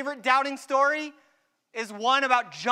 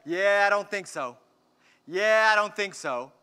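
doubting Thomas; 3 semitones lower than usual. Pretend.

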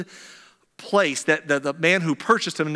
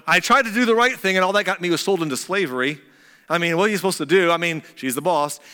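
whiny excuse; 3 dB louder, faster than usual. Retold or imitated. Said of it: "Joseph might have been able to say".

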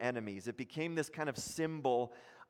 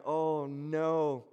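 worried council. Acted. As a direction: voice the council's nervous panic. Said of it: "They're going".

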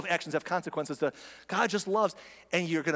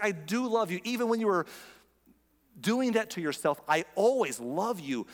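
higher, lightly voiced gentle assurance; patient God; 6 semitones higher than usual. God replies to whining sufferer, patient and loving. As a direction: reassure tenderly, stretching always. Voicing God's patient answer.

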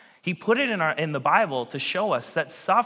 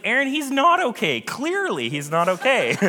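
higher, amused chiding of her husband; wife correcting him; 9 semitones higher, 4 dB louder than usual. Retold or imitated. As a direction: gently scold him with a laugh. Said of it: "He's like".

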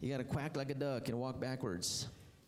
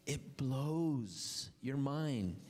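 slow emphasis; 3 semitones higher, much slower than usual. Real, not acted. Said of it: "it will blow your mind".

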